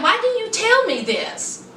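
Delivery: high-pitched imitation of a bothered man. Boyfriend confronting her over the secret, bothered. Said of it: "He was bothered".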